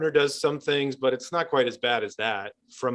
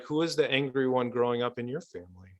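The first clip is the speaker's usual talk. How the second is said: softer, caring therapist question; gentle probing question; 5 dB quieter than usual. Acted. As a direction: ask it gently, inviting them to open up. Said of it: "And I'll say something like".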